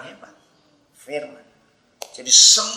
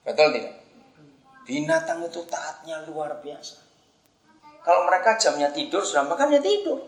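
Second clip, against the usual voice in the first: usual speaking voice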